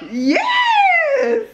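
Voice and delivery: high squealed yes with a laugh; excited yes. Real, not acted. Celebrating her packaging arrival, squealing with joy. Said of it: "I'm so excited if you can't tell".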